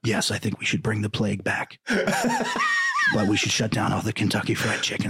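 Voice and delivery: lightly strained, halting politician voice; a hint of a strangled rasp. Joking as a politician with outlandish proposals, lightly strained R F K voice. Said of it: "your R F K impression".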